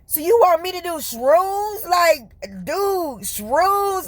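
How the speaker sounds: high-pitched disbelieving question; playful incredulity. Retold or imitated. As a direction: question it like a stunned buddy. Incredulous question put to God.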